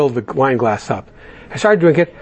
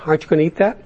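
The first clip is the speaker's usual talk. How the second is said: calm and nice; much faster than usual. Retold or imitated. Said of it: "very calmly and nicely I say".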